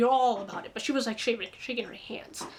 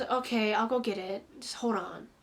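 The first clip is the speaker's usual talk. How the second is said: casual; 2 semitones lower than usual. Retold or imitated. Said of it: "very casual".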